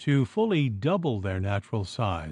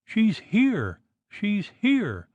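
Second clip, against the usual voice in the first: terrified scream; 9 semitones higher, much slower than usual. A narrator's reading. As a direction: shriek it as if seeing a ghost. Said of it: "screamed poor little Missus Nutter".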